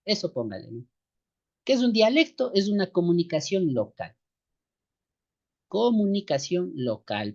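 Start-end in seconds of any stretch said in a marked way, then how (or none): 5.7-7.3 slow, deliberate dictation. Shown as a demonstration. Teacher dictating to brothers, slow and deliberate. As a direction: lay each word down for note-taking.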